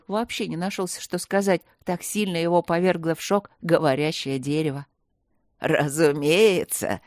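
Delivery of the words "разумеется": deep, slow laughing tree voice; laughing talking tree. Acted. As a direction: boom it out with a chuckle. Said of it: "рассмеялось дерево".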